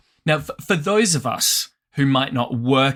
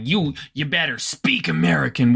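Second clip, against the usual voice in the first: put-on Southern US accent; 3 semitones higher than usual. Southerner telling someone how to talk, Southern accent. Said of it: "someone from the South would be like".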